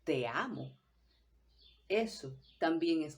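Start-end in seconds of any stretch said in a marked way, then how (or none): 0.0-0.8 "Te amo" at odds with its meaning; incoherent love declaration. Shown as a demonstration. Teacher showing how not to say I love you, mismatched delivery. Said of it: "no debo decir".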